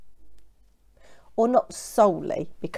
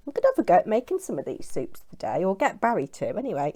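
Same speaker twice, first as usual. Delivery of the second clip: normal talking voice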